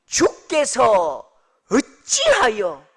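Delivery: loud, drawn-out scriptural lament; outpoured complaint. Acted. Habakkuk demands an answer from the Lord, drawn-out loud protest. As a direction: stretch each word as an accusation. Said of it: "그냥 퍼붓는데요".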